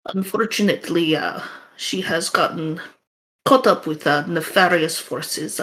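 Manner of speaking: put-on NPC with a light Russian accent. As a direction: village woman in a mild Russian accent. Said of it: "I don't think I have much variation in my Russian accent".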